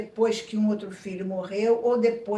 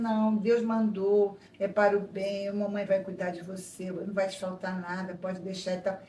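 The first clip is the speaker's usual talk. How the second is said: reassuring mother; 2 semitones lower than usual. Acted. Mother promising her baby care despite hidden regret, reassuring. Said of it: "Tá dizendo".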